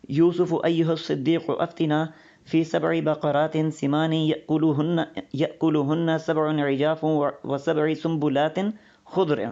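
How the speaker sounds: slow, measured recitation of the verse; Quranic recitation. Acted. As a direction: intone each Arabic phrase carefully.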